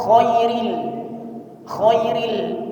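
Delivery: "khairil" with a rough unvoiced kh; wrong kho sound. Shown as a demonstration. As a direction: say "khairil" with a harsh kh. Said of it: "jangan diganti jadi kho". ("khairil" salah dengan kho)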